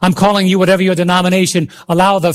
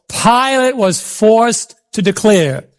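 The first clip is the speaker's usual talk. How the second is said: slow, deliberate restatement; preacher driving the phrase home slowly; slow emphatic repeat; 2 semitones higher, slower than usual. Real, not acted. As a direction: stretch the words out for emphasis.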